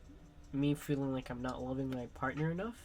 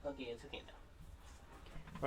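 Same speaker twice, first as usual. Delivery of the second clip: slow whisper to calm the dog; soothing whisper; 11 dB quieter, slower than usual. Real, not acted. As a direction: hush the dog gently, slow and breathy-soft. Soothing the dog after shooing.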